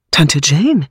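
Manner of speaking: anxious call. Acted. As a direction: call her name with sudden worry. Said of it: "rief Bunch ängstlich". (ängstlich gerufen, etwas lauter)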